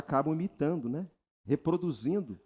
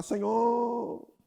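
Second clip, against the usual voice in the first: drawn-out, slow imitation of a humble prayer; mock pious prayer; 4 semitones higher, much slower than usual. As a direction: plead slowly like a self-pitying believer. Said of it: "nas suas orações você declara". (imitação lenta de oração piedosa)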